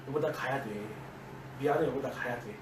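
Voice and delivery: low, hushed, apologetic; quietly sorry, holding firm; soft apology. Retold or imitated. To his tired wife, a low quiet apology.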